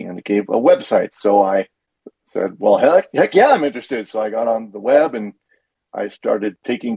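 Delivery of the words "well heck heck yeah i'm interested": higher, keen retelling of a yes; eager acceptance. Retold or imitated. Recalling a reply to the class offer, eager. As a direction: jump at the offer, lightly acted. Quotes own eager response.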